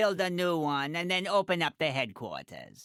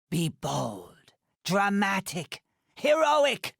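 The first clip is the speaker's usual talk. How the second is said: rousing exclamation; slower than usual. Acted. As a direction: fling the word out grandly. Rousing the hero.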